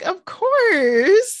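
an emphatic, tender mom's yes; retold heartfelt yes. Mom letting son give away the dollar, heartfelt agreement.

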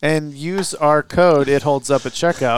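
promo code announcer voice; ad read. Pretend. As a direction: read it like a sponsor spot.

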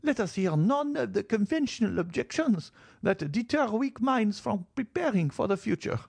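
put-on high, sharp old grandmother's voice; sharp old lady. Grandmother sharply dismissing Valentine's objection, high and cutting. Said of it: "exclaimed the old lady sharply".

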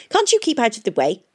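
testy and impatient; irritated snap. A narrator's reading. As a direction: scold him crossly, falling at the end. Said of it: "they heard him snap".

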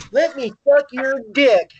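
talking around a cigarette; cigarette in mouth. Real, not acted. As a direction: cigarette in mouth, words slurred. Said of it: "I had a cigarette in my mouth".

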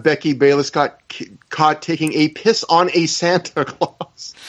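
imitating someone trying not to break, slowing and stumbling; halting delivery with a suppressed laugh creeping in; stifled laughter. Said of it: "like, stifling laughter".

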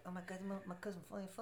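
fast, laughing quote. Retold or imitated. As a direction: giggle through it quickly. Retelling, laughing hard.

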